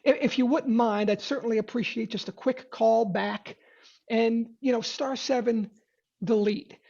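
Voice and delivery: timid salesman asking permission; wimpy mother may I. Shown as a demonstration. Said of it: "sort of wimpy mother may I".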